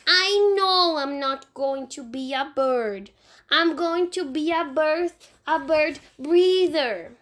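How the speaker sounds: put-on high little boy voice, slow; a small child explaining matter-of-factly. Fudge in the tree explaining to Sheila, in a high little boy voice.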